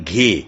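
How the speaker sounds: گھے as one breath-released hard g; gh as one sound. Shown as a demonstration. Teacher showing students two letters making one sound, گھے as one fused gh. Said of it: "گاف ایک کی بنی".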